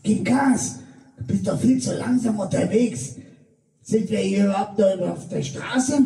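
gemäßigt gespielter Anschrei, etwas höher; nachgespielter Schrei. Retold or imitated. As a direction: ein Hauch von panischem Anschreien. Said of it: "schrie ich Joanna an". (Vater schreit die Tochter am Steuer an, leicht gespielt)

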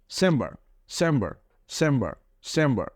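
চেম্বার starting with a স sound. Shown as a demonstration. Teacher drilling the word for students, clearly. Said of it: "C এর পরে আবার এখানে H আছে".

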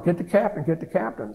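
understated retelling of a yell; retold yell. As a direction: imitate a call for help without real volume. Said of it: "he's yelling".

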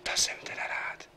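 slow soft whisper. Acted. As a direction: whisper the relief slowly. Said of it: "když šeptám".

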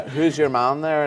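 put-on slow, light Belfast accent. Kid on a Belfast estate asking about someone, slow Belfast accent. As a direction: drawl it out like a Belfast local, lightly. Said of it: "It's a very good accent".

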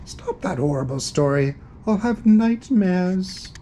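plead, climbing high at the end; distressed cry. Acted. Ghost begs the Panther to stop reading, distressed cry. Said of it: "cried a voice behind".

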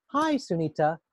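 "Hi, Sunita" in a cheerful tone; a bright, lively greeting; different tone. Shown as a demonstration. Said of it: "That tone in my voice suggests".

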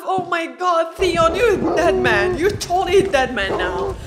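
loud, alarmed outburst at the screen; real panic shouted at the TV. Real, not acted. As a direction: yell it like you fear for him. Reacting to a tense scene.

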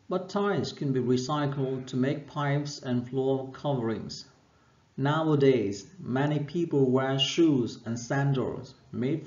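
steady, careful reading-aloud voice; textbook reading. Acted. Teacher reading the textbook text to her class, clear and measured. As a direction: read the passage clearly for learners.

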